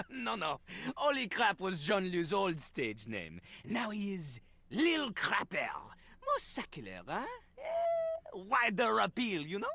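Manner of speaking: put-on plain-level French accent, spoken; a smug French rapper explaining. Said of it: "the speaker doing a French accent".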